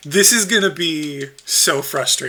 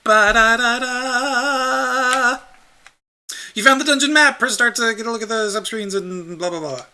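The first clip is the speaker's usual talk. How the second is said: put-on annoying child voice; 8 semitones higher than usual. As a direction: chirp it like an attention-seeking child. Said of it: "like, annoying child voice".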